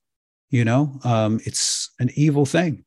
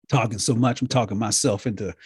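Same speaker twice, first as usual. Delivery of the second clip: hoarse voice; 3 semitones lower, 5 dB quieter than usual. Real, not acted. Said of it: "into a hoarse state".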